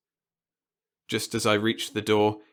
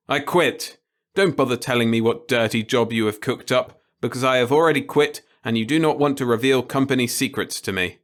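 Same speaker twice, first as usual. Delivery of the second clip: brisk, defiant refusal, a touch faster; defiant repairman; 3 semitones higher, 3 dB louder than usual. Acted. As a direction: quit before he can speak.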